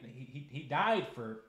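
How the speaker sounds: a sermon beginning to swell; rising fervour. Real, not acted. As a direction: emotion building, not yet at the peak. Building emotional preaching.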